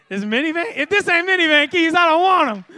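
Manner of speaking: hammed-up minivan snob; picky mock demand. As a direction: turn the keys down like a diva. Picky congregant grabbing keys.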